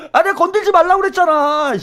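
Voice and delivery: high-pitched exasperated scolding; hammed-up indignant protest; mock angry outburst. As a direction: blow up in playful outrage. Acting out a provoked man.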